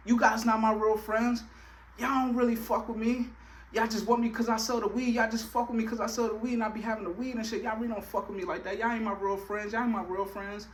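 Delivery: accusing. Retold or imitated. Accusing friends while dissociated.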